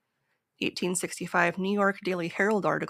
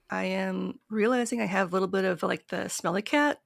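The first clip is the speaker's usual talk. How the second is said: raspy sick voice; croaky from a cold; hoarse voice; 4 dB louder than usual. Real, not acted. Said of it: "the smelly cat voice thing going on right now".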